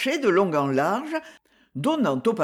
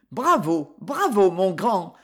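enthusiastic. Acted. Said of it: "enthousiasmée".

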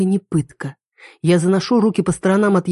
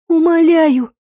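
пронзительно высоко и громко, в панике; пропищи в ужасе; пискливая мольба; 11 semitones higher, 5 dB louder, slower than usual. A narrator's reading. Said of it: "запищала я". (испуганный писк)

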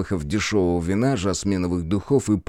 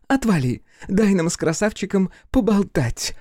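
barge in tipsy and mocking, voice pitched up; drunk daughter; 12 semitones higher than usual. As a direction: brazen drunk young woman calling out.

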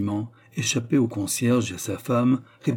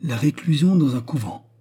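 louder, seizing on the words; mounting outrage, a touch louder; furious exaltation; 4 semitones higher, 4 dB louder than usual. A narrator's reading. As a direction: repeat his phrase back in rising fury. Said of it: "furieuse exaltation".

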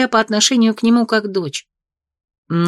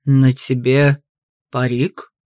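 stern father voice; 7 semitones lower, much slower than usual. Acted. Duke confronts painted daughter.

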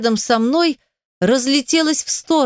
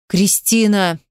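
ordinary delivery

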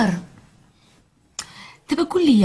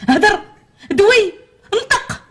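exasperated demand; 9 semitones higher, much slower than usual. Acted. Wife pushing her silent husband to speak, exasperated. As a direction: prod him awake word by word.

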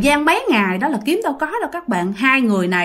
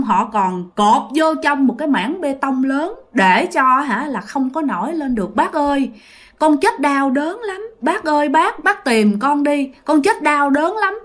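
put-on ghost boy begging; 3 semitones higher than usual. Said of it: "nó nói rằng nè".

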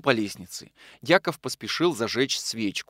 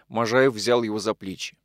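ordinary delivery, nothing marked

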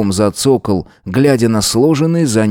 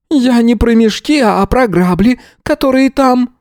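put-on old gypsy woman; 14 semitones higher, 3 dB louder than usual. A narrator's reading. Yana voiced.

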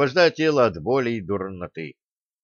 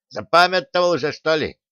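teasing question; 5 semitones higher than usual. A narrator's reading. Craftsman teases the teacher, higher teasing jab. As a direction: needle him about forgetting.

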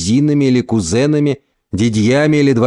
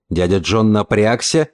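ordinary delivery

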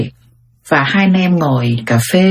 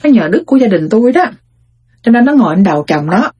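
proud, higher-pitched boasting; a mother gloating over her son-in-law, higher and proud; bragging mother; 3 semitones higher than usual. Retold or imitated. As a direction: show off about your lucky daughter. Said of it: "Mình đã khoe sao?".

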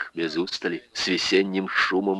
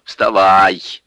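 loud order to get up; sharp command; 6 dB louder than usual. Acted. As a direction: bark it as an order. Alyona orders husband up.

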